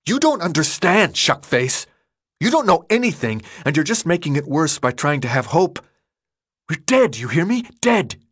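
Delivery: desperate angry yell peaking on "Dead"; furious outburst. Acted. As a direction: shout it in his face in despair. Minho grabs him, outburst.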